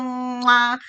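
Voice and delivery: blown kiss smack; kiss sound. Shown as a demonstration. Therapist shows parents blowing kisses, kiss smack. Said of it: "tirar besitos".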